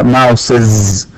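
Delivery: ماوسز said slowly as "mausiz"; teacher modelling the computer plural; model pronunciation. Shown as a demonstration. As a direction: stretch out ماوسز with the extra syllable. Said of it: "تجمع".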